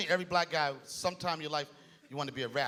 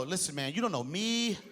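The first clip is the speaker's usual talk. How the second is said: higher mock shouting white guy, hammed-up; angry white guy; 5 semitones higher, slower than usual. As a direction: rant like a mad white guy at a bar. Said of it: "when white guys get mad".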